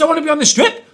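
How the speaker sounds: put-on high, loud childish protest; whiny protest. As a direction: whine it like a stroppy kid. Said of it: "I goes".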